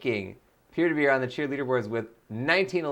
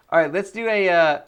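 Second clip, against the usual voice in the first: cheerleader; 5 semitones higher, 7 dB louder than usual. Acted. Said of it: "more cheer voice here now".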